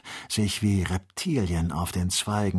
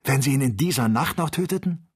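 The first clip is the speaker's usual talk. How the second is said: excited; 5 semitones higher than usual. Acted. Joe in Aufregung.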